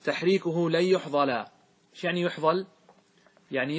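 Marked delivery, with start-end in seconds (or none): 0.0-1.4 verse recited. Shown as a demonstration. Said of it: "قال الناظم".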